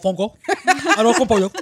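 reading Spanish words through laughter; laughing while reading out. Real, not acted. Reading Spanish food names laughing.

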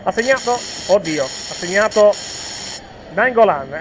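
excited, loud call of the scorer; breathless italian goal commentary. Real, not acted. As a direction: call out the scorer's name with joy.

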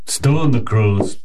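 mock wry quip. Guard makes a crow pun, slow and wry. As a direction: savour the pun slowly.

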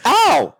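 high, loud mock yelp; mock yelp of pain. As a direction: yelp as if slapped hard. Reacting to slap on screen.

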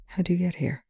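soft, hushed question; quietly. A narrator's reading. Young gently asking Perry why she's here, quiet. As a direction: ask gently, barely above a murmur. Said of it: "Young says quietly".

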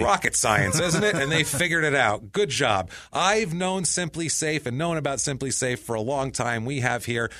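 emphatic podcast sponsor read; punchy, chatty ad pitch. Real, not acted. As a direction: sell the company with conviction. Host reads sponsor ad.

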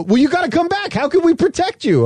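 put-on high, pleading kid voice for dad; mock-anxious child begging dad to come back; mimicking his kids. Dad voicing sons protecting him.

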